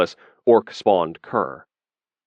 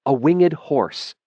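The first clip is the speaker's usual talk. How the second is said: persuasive; 7 semitones higher, much slower than usual. Acted. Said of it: "said a persuasive female voice".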